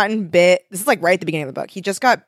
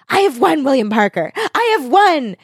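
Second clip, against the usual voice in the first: high, triumphant villain crowing; cat-witch gloating over her beaten foe; 7 semitones higher than usual. Acted. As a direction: crow over him like a cackling witch. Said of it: "and she's like".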